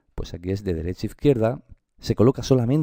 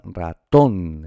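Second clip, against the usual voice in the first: ratón with the last syllable TÓN held and punched; stress on TÓN; 4 dB louder than usual. Shown as a demonstration. Teacher locating the prosodic accent, ratón stressed on TÓN. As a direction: lean hard on the final syllable of ratón. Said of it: "¿dónde está su acento prosódico?".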